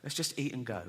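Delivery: soft, exasperated hush; hushed scolding. Retold or imitated. Wife telling him off at the table, hushed exasperated scolding.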